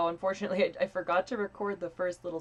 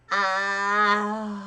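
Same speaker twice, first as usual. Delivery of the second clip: loud pinched nasal ah; 8 dB louder than usual. Shown as a demonstration. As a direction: squeeze the ah into the nose. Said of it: "like, say".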